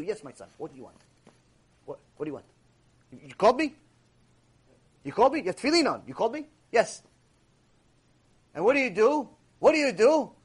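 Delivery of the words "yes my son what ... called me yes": gentle voice of God. Acted. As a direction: answer the child who called, tenderly. God answering the praying man.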